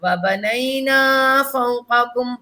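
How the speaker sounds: slow, measured tilawat; slow melodic Quran recitation. Acted. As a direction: chant each verse slowly and evenly for the pupil. Leads the recitation.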